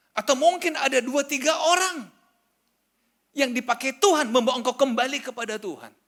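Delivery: high, loud sermon cry to the congregation; preaching at full force. Acted. (khotbah berapi-api, suara tinggi dan keras)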